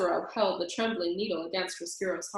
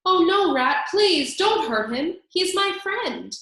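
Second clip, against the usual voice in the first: much higher, slower frightened plea; pleading cry; 9 semitones higher, 7 dB louder than usual. A narrator's reading. The princess begs Roscuro to spare the mouse, pleading. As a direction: beg the rat to spare him. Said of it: "The princess cried".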